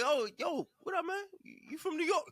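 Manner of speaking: high-pitched, eager retold hello; eager greeting. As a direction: act out a keen approach to a stranger. Retold friendly approach in elevator.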